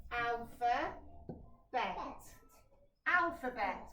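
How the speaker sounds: alpha, bet, then joined as alphabet; syllables blended into a word; blending syllables. Shown as a demonstration. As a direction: put the chunks back together. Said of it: "when I put them together".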